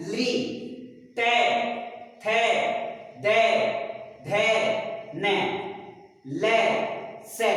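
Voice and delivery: each dental letter said alone, with a clear pause after it; dental sounds demo. Shown as a demonstration. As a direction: sound out the letters slowly for students. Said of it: "अब है चौथा है". (दंत्य वर्णों का अलग-अलग स्पष्ट उच्चारण)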